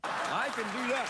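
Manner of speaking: slow, high, put-on French Christopher Lambert voice; slow put-on French growl for the Highlander bit; mock French accent. Showing off a slow hammed-up French accent to the guest. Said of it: "The French emphysema patient voice".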